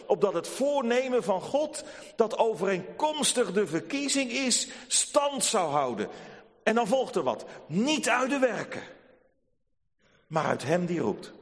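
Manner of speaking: fervent recitation. Shown as a demonstration. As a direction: proclaim the verse to the hall. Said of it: "lazen we het zo". (Romeinen negen luid en hoog verkondigd)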